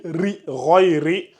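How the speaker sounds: ri, royri with a light, unheavy r; thin ra. Shown as a demonstration. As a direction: royri said thin, no added volume. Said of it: "on n'augmente pas de volume".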